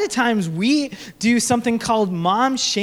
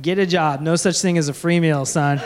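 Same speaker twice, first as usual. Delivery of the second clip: lower, deadpan stern dad; tough-love dad; 6 semitones lower than usual. Retold or imitated. Dad telling his hungry toddler to earn his meal, mock-stern. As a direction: lay down the law, mock-serious. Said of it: "and I'm like".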